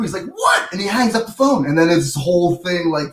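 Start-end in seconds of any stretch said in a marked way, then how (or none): 0.3-0.7 very high, questioning yelp; mock disbelief. Prank victim reacting before hanging up the phone, mock disbelief. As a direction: imitate someone caught totally off guard. Retold comedian's caller reacts in shock.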